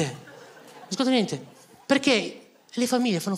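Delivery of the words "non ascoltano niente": softer, slower, resigned; quiet slow repeat. Shown as a demonstration. Comedian repeating his complaint to the audience, quiet and slow. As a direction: mutter it again, drained and slow.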